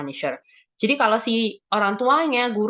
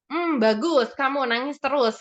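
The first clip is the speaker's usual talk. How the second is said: higher, mock-approving sarcasm; sarcastic; 5 semitones higher than usual. Parent to a crying child, acted sarcasm. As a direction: praise it sarcastically. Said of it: "seringkali orang tua juga sarkas".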